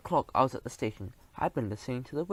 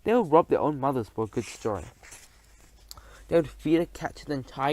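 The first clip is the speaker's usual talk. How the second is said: indignant rant; 5 dB louder than usual. Acted. Outraged rant about rival paper.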